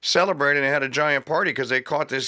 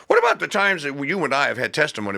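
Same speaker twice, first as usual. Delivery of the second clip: ordinary delivery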